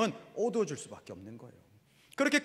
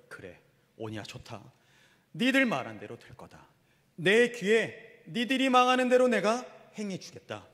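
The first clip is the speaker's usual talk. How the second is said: voice of the Lord; 2 semitones higher, slower than usual. Acted. The Lord answering the grumbling people, solemn pronouncement growing firmer. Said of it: "주님 뭐라고 말씀하신 거예요".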